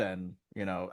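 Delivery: usual speaking voice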